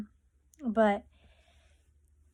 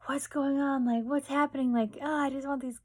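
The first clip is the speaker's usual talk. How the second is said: higher-pitched imitation of a fretful patient; mild mock freak-out; 6 semitones higher than usual. Imitating sister fidgeting after anesthesia, mild high-pitched freak-out. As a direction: lightly imitate someone groggy freaking out. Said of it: "freaking out".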